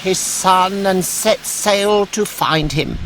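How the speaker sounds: high, urgent voice; worried old woman. Acted. An old woman tells Pinocchio of the boat, high and worried. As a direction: tell the danger breathlessly. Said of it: "an old woman".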